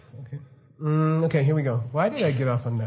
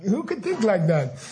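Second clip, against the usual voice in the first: higher, laughing question; laughing disbelief; 5 semitones higher than usual. Pretend. Future people about our wars, laughing disbelief. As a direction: marvel at how dumb it was. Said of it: "they're like".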